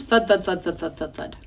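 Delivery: rhythmic thudding that fades; washing machine. Shown as a demonstration. Teacher demonstrates the sound for children, rhythmic machine thudding. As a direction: imitate a washing machine's steady thuds. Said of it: "sounds just like a washing machine".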